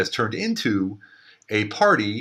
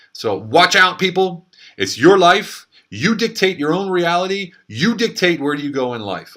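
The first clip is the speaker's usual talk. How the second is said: louder and higher rousing appeal; rallying call; 8 semitones higher, 6 dB louder, slower than usual. Real, not acted. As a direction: pump up the crowd. Rallying the audience.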